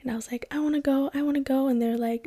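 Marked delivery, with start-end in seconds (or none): 0.5-1.6 put-on fast, pleading little-kid chant, a bit higher; eager childish begging. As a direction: beg like an impatient kid. Child begging dad to skydive.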